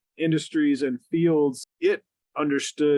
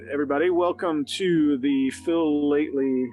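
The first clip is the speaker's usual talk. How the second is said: radio voice. Real, not acted. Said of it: "I'm trying to use my cool radio voice".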